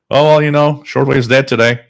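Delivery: mocking a commenter who says shortwave's dead, whiny; mock whiny complaint. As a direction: parody the complainer's whine.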